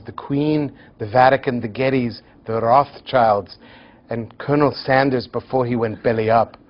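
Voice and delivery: put-on a clumsy Scottish accent, deadpan list; poor Scottish accent. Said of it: "forgive my very poor Scottish accent".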